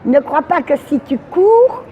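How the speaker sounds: measured poem, line by line; poem recitation. Acted. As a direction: recite with a pause after each line.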